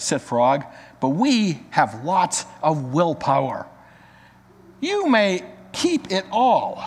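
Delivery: lively read-aloud storytelling voice with character lines; story narration. Acted. Pastor reading a children's story to the congregation, lively read-aloud.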